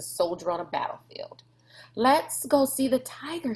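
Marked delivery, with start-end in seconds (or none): 1.9-3.5 shouted. A narrator's reading. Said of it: "she shouted to him".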